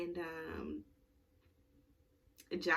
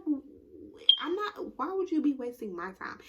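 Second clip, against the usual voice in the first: stammered start, high mock disbelief; retold sputtering protest; 8 semitones higher, 6 dB louder than usual. He answers her worry about his time, sputtering mock protest. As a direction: imitate him stammering, then protesting high.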